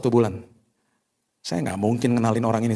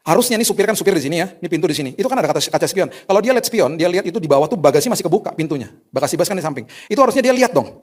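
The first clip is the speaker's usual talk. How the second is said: louder, higher exasperated complaint; telling the church about the bus driver, loud and exasperated; indignant; 5 semitones higher, 4 dB louder than usual. Real, not acted. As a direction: vent about the careless driver.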